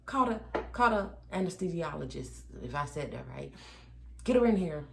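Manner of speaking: forceful demand. Retold or imitated. Demanding epidural from nurse.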